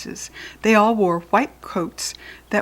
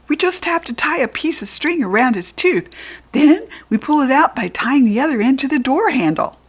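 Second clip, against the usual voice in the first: goblin voice; 7 semitones higher, 5 dB louder than usual. Acted. Third goblin proposing.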